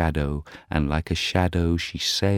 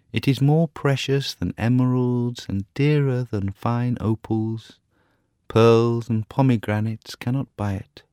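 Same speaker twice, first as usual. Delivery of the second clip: tender raised bird voice; nightingale voice; 6 semitones higher than usual. Acted. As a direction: marvel at love like a songbird. Nightingale musing on love.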